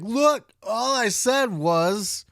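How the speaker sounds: lightly voiced mock Nash, high and loud; mild mock of Nash playing it down; mocking Kevin Nash. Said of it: "No, you didn't say it like that".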